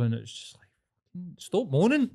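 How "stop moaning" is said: mock scolding. Retorting to complaining mum.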